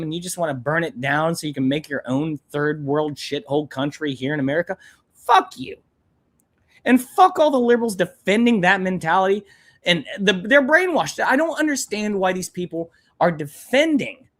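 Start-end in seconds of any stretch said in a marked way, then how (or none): 5.1-9.4 real angry outburst. Real, not acted. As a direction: let the anger burst out on the curse. Furious outburst at illegal immigrants.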